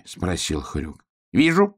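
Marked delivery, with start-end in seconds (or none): 1.3-1.8 a hint of a mother pig, mildly raised. Mother pig tells Hrjuk she sees him. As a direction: answer plainly as a mother. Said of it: "сказала мама-свинья".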